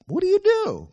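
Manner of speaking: high, loud frantic sailor voice; panicked sailors. Acted. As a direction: fire the question out in alarm. Sailors frantically questioning Jonah.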